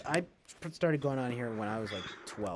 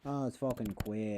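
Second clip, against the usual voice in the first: put-on Boston accent. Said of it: "Very Boston, though".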